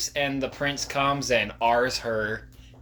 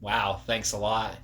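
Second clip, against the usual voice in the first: dry, slow sarcastic thanks; fake gratitude; 3 semitones lower, 6 dB quieter, slower than usual. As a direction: thank them without meaning it. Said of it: "I'm like".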